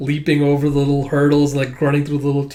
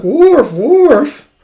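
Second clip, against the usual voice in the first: two high, loud woofs, falling; imitated barking; 12 semitones higher, 10 dB louder than usual. Bond barking back at his owner, imitated barking. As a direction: bark back like a scolded dog.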